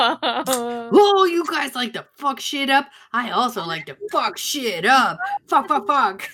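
giggling fanboy villain voice; mock mall ninja. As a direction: ham up the blade-loving braggart.

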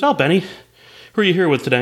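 lightly put-on circus host voice; clown host. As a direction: play a clown quizzing a young volunteer. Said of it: "the clown asks his name".

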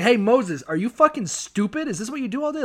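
acted disbelief, pitch climbing; mock incredulous. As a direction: call him out as if baffled by his stupidity. Jethro challenges Moses, acted.

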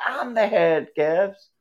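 high-pitched mimic voice; exaggerated high impersonation; imitated friend. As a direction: answer in his high, silly voice. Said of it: "He's like".

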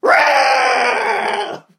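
loud high Scooby yell; Scooby-Doo voice. Retold or imitated. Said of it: "You're like".

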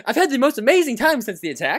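lightly put-on Cockney accent; a hint of Cockney orphan voice; Davis Pickle. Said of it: "But in, in his voice".

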